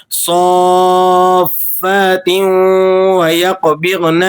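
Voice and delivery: صافات و یقبضن slow, with a stop on ت; stopping sound. Shown as a demonstration. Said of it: "stopping sound میں اسے پڑھیں گے". (صافات پر وقف کے ساتھ)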